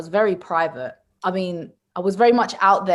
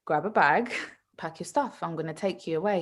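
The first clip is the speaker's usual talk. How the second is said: softer, understated imitation of a calm father; scarily calm dad; 3 semitones lower, 6 dB quieter than usual. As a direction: give the order quietly, without any fuss. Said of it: "he's so calm, it's scary".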